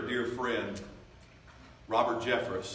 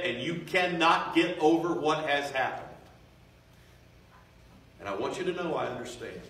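raised voice, building in intensity; impassioned preaching; 3 semitones higher, 4 dB louder than usual. Real, not acted. Preacher addressing someone in bondage, with rising fervor. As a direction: press it home to the congregation. Preaches directly at hurting listeners.

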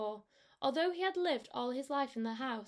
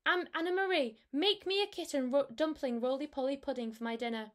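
rat voice; 2 semitones higher than usual. Acted. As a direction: demand dinner like a greedy rat. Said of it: "said the old man rat".

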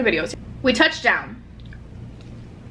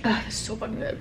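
mouth full; 7 dB quieter than usual. Real, not acted. Eating during mukbang vlog.

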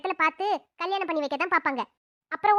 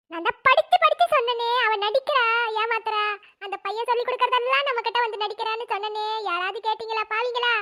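louder crying wail, படிச்சு hammered; loud wailing lament. Acted. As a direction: wail it out to the whole house. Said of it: "இப்ப எதுக்கு அழுவுற மாதிரி நடிக்கிறீங்க?". (உரத்த குரலில் அழுது புலம்பல்)

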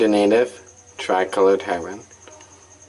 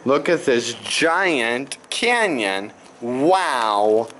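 slow, awed and wondering; drawn out in amazement; 3 semitones higher, much slower than usual. Real, not acted. Awed by a giant canyon.

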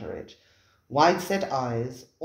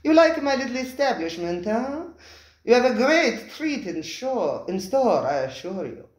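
effusive host; 9 semitones higher, 4 dB louder than usual. Acted. Spiro the restaurateur welcoming his diners, high and effusive. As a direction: gush over the guests like a fawning host.

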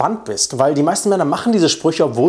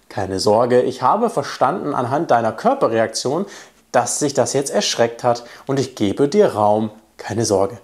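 lower, gentle reassurance; reassuring; 3 semitones lower than usual. Shown as a demonstration. Coach shows how to calm a startled woman, reassuring. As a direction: take the pressure off her gently. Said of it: "um einfach Druck aus der Situation rauszunehmen".

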